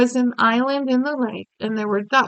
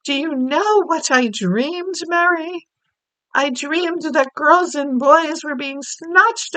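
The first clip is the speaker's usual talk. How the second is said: Queen telling a dream; 5 semitones higher than usual. Acted. Queen recounts her nightmare.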